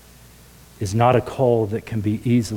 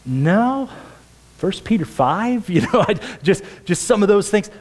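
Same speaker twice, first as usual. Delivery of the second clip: imitated quote; 9 semitones higher than usual. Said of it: "I'm like".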